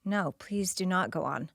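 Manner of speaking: whispered, pleading daughter; hurt whisper. Retold or imitated. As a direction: plead under your breath. Hurt daughter begs quietly.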